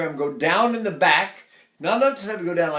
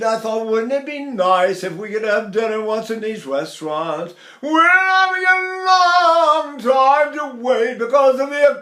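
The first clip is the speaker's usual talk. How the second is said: high, loud, half-sung chatter; speech from the navel; 7 semitones higher, 7 dB louder than usual. Shown as a demonstration. Teacher talking on a navel sigh, high and ringing. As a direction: sigh from the belly and keep talking. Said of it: "Or I can drop it from my navel down".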